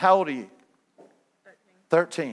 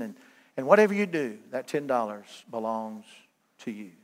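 softer, tender and sincere, fading down to a hush at the end; sincere gift; 4 semitones lower, 3 dB quieter than usual. Acted. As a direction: offer it gently like a real gift, voice dropping. Gentle giver offering a real gift.

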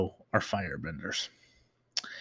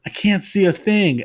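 higher-pitched imitation of a yell; yelled quote, played lightly; Sokka's mock yell; 8 semitones higher, 4 dB louder than usual. Retelling Sokka in the tunnel, mock yell. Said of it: "Sokka just yells".

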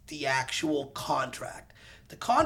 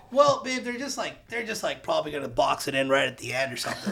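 retold reassurance. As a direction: soothe babe with a breezy explanation. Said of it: "trying to, like, just give her peace of mind".

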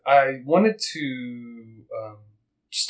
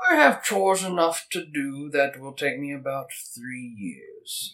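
put-on old Davis voice; 4 semitones higher than usual. Voicing old Davis answering.

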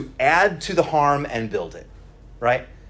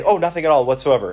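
quick, louder mock denial; unnatural denial; 6 dB louder, faster than usual. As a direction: cover up anger with an overdone brush-off. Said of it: "don't actually ever talk like that".

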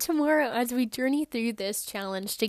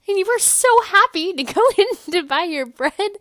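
higher, louder, laughing through it; even more over-the-top joy; giddy cheer with a laugh; 8 semitones higher, 9 dB louder than usual. Acted. Retelling the shopping trip, giddier, with a laugh. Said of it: "I know I'm being funny".

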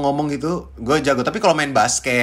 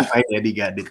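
put-on spoiled rich girl; 5 semitones lower than usual. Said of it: "white girl gitu".

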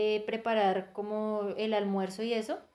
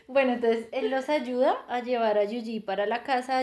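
laughing. Real, not acted. Laughing after joke.

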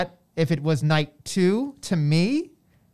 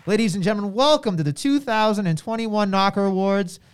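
ringmaster; 4 semitones higher than usual. Acted. Host mimics announcer intro.

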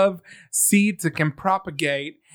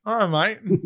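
higher put-on British greeting; British accent; 3 semitones higher, slower than usual. Shown as a demonstration. Co-host practises the greeting, British accent. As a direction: repeat it as a would-be Brit. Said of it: "I can only do a British accent when I'm mumbling".

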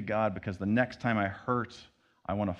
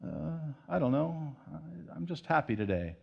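evasive shrug; 3 dB quieter than usual. Retold or imitated. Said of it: "we might shy away from it and say".

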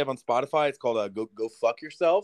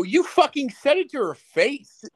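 stifled giggles; 12 semitones higher, 4 dB louder, slower than usual. Real, not acted. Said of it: "'Cause I'm trying not to laugh".

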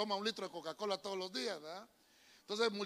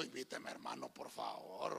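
much lower, soft begging voice; mock pleading; 11 dB quieter than usual. Preacher jokes about begging to be invited, mock pleading. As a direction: beg for the wedding invite, half joking.

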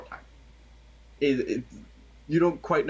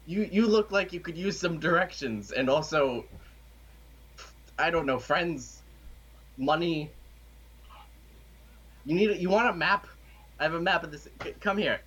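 shady street hustler; 4 semitones higher than usual. Acted. GM voices shady alley man.

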